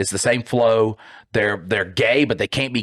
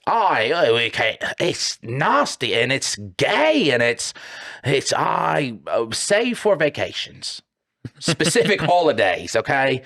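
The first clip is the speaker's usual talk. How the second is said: a lightly voiced, higher prim Briton, drawn out in places; mock prissy Brit; 3 semitones higher, slower than usual. Mocking British people to his cohost, a higher prim put-on voice. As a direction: send up a prudish Brit, slow and prim.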